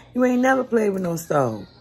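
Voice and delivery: "ain't never" yelled loud and high, stress on "never"; loud, high yell with "never" punched; angry yell. Retold or imitated. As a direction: shout it as a furious scold. Mother yelling at daughter.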